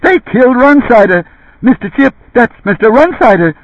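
high, loud panicked yell. A narrator's reading. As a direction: shout it over the smoke and noise. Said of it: "Don Denny was yelling".

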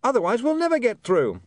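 high-pitched, urgent yell; screaming. A narrator's reading. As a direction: shout desperately over noise. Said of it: "he screamed".

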